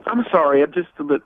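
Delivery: crying on the phone. Real, not acted. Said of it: "I'm a little bit upset".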